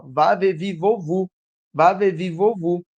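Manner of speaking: rhythmic syllable-family chant, evenly spaced; memorised recitation. Acted. Teacher imitating a pupil who needn't look, rote recitation. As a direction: rattle off the sequence by rote. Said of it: "a pronunciar a sequência".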